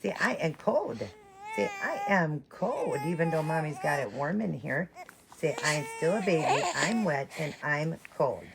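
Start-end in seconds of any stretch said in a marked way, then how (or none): 0.0-3.0 lightly voiced baby, slow; mild baby voice; voicing the baby. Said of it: "and you're cold". 5.4-8.4 put-on mild baby voice; voicing the baby. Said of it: "and you're cold".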